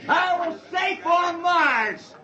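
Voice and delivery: wobbly crying-out cheer; drunken celebration. Acted.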